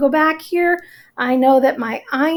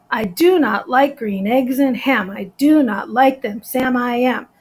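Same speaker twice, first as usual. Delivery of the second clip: sing-song alternating beat on "I do not like"; rhythmic recital. Shown as a demonstration. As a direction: bounce from unstressed to stressed, "i DO not LIKE". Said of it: "So it's very rhythmic".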